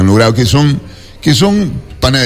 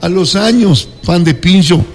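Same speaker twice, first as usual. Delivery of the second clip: higher-pitched mock mother-in-law; imitated mother-in-law; 7 semitones higher, slower than usual. Man quoting his mother-in-law to friends, higher-pitched imitation. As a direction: lift the voice to quote a mother-in-law. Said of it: "una suegra que me dice".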